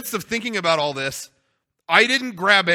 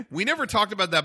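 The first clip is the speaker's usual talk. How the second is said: laughing; 3 dB quieter, faster than usual. Real, not acted. Repeats line while laughing.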